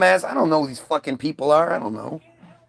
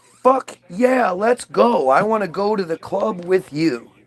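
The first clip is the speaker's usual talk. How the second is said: eager yes; slower than usual. Retold or imitated. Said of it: "you're like".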